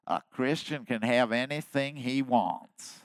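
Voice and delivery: a light East Texas Baptist drawl on the quote; imitating East Texas drawl. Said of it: "East Texas Baptist drawl".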